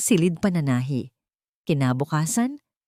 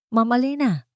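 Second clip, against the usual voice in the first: respectful; 7 semitones higher than usual. A narrator's reading. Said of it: "Ang boses ay puno ng respeto".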